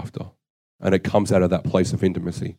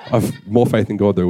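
laughing. Real, not acted. Laughs at own slip.

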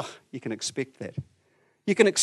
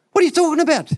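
high, loud outburst of disbelief; a hammed-up shocked disciple yelling back; incredulous shout; 13 semitones higher, 9 dB louder, faster than usual. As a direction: shout it like you can't believe your ears. Disciples react, voiced by preacher.

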